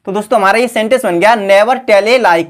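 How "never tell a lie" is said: each word drawn out for copying; slow dictation. Shown as a demonstration. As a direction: dictate it slowly to the class. Teacher dictates the English sentence. (धीमी गति से लिखवाना)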